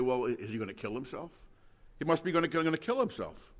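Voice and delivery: a mocking, quick "is he gonna kill himself"; great derision. Preacher voicing the scoffing Jews, in derision. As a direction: sneer it as a put-down. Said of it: "in great derision".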